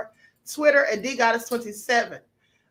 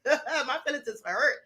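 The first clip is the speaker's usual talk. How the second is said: laughing through fake hurt feelings; mock hurt; 5 dB quieter than usual. Host laughing off her rival's insult. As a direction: pretend to be wounded, chuckling.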